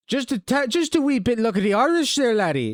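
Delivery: mock Scottish accent. Streamer mocks the orange beard in a Scottish accent. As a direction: tease him like a cheeky Scotsman.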